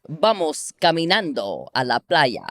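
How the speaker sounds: Spanish said clearly for copying; Spanish phrase at an even, natural flow; Spanish model phrase. Shown as a demonstration. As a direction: model the Spanish line in a Latino accent. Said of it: "copying the Latino language".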